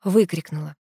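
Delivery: ordinary delivery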